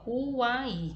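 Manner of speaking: "Uai" said slowly and clearly as one glide; showing the triphthong. Shown as a demonstration. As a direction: spell out the ending "Uai" for the class. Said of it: "Percebam aí, ó". (mostrando o tritongo "Uai" com clareza)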